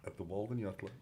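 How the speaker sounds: hushed dramatic low announcement; dramatic announcer. Pretend. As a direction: drop into a hushed dramatic tease. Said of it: "that little bit of drama there".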